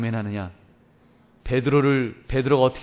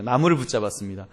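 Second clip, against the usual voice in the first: normal talking voice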